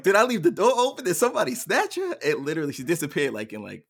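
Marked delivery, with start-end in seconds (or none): 0.0-2.2 loud, high, rushed panicky questions; retold freak-out. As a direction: act out a parent's racing worst fears. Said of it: "I'm freaking out".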